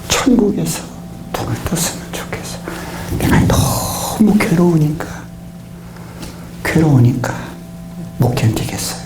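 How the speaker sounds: a weeping prayer, mostly whispered; retelling a desperate night prayer in a broken whisper; tearful whispered prayer. Retold or imitated. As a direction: pray through tears, barely voicing the words. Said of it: "울음으로 기숙을 하는 거예요".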